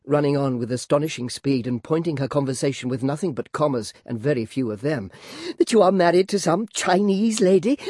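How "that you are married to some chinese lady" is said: put-on high, girlish, fluttering chatter; coquettish Flora. Flora fishing for compliments from Clennam, high and girlish. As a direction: play the flustered former belle.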